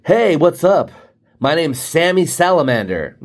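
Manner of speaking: a hint of an eager sales rep introducing himself; salesman pitching. Imagined rep greets Hilton's vice president, lightly mocked sales voice. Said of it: "They're going in to meet with".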